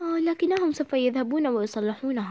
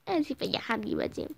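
softer, grudging sorry; reluctant mumble; 3 semitones lower, 7 dB quieter than usual. Acted. Daughter forced to apologise, mumbling. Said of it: "قولي آسفة".

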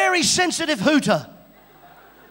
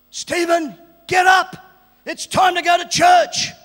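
mother calling; 3 semitones higher, 7 dB louder, slower than usual. Retold or imitated. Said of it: "my mother would come into my room".

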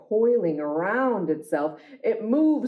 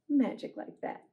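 soft echo; 5 semitones higher, 6 dB quieter than usual. Shown as a demonstration. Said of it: "echoes the refrain softly".

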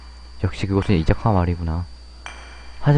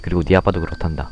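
stern grandfather. Acted. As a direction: warn the child firmly but kindly. Grandfather warns child about room.

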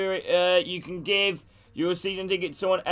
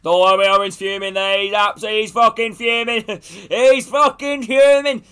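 laughing gloat; 6 semitones higher, 8 dB louder than usual. Real, not acted. Streamer to chat about a fuming teammate, laughing mock. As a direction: relish every word of the teammate's rage.

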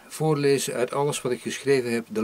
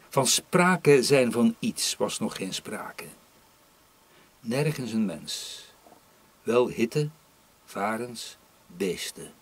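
measured recital with emphatic lifts and pauses; poetry reading. Acted. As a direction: poet reading aloud to an audience. Poet reads own poem aloud.

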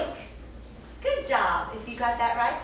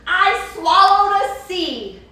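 crocodile voice; 5 semitones higher, 7 dB louder than usual. Acted. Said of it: "said the crocodile".

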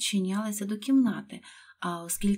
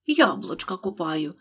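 slow mocking mimicry; mock the servant's words, slowly; 4 dB louder than usual. Rabbit mocking Pat's words, slow sneer. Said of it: "передражнив кролик".

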